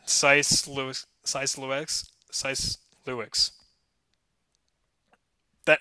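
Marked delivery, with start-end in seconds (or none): 0.1-3.5 slow, halting "Sice Lewis", varied on each retry; struggling pronunciation. Real, not acted. Host stuck on a bad one, struggling to pronounce it. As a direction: sound out "Sice Lewis" piece by piece. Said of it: "this is a bad one".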